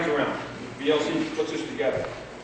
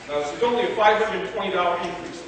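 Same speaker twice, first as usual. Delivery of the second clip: only leaned on, the rest plain; stress on only. Real, not acted. Speaker at a town meeting stressing how small the raise is, light stress on "only". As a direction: press the word "only" a little harder than the rest. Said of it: "I emphasize the word only".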